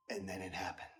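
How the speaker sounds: soft, low dramatic whisper-like line; suspense hush. Real, not acted. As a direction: drop the voice to build suspense. Suspense build before scare.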